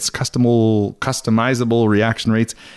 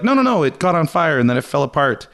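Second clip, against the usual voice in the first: dismissive; 6 semitones higher than usual. Retold or imitated. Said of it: "so nist is like".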